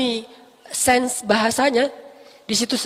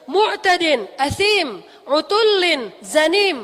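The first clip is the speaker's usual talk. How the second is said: angry Quran recitation; 2 semitones higher, much faster than usual. Shown as a demonstration. Teacher demonstrates angry tone of the verses, forceful recitation. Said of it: "kalau kita baca itu iramanya kurang lebih".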